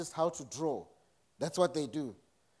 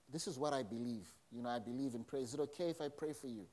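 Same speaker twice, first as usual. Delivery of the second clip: softer, lower, tentative offer of prayer; gentle offer; 3 semitones lower, 7 dB quieter, faster than usual. Acted. Believer quietly offering prayer to an unwell colleague, gentle.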